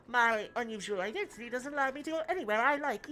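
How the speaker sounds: muffled robot voice through cupped hand; hand over mouth. Acted. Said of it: "put my hand over my mouth".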